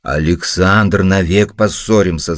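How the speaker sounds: angry shout. Acted. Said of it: "закричал Пётр Иванович сердито".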